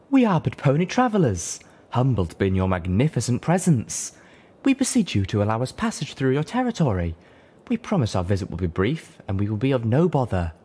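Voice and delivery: loud, high, formal address; humble but grand plea; loud stately proclamation; majestic boom. A narrator's reading. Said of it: "Her voice boomed, magnified majestically".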